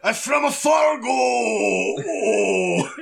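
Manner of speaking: high, hammed-up Fargo whine; mock-upset Fargo accent. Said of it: "I was pretending to be upset".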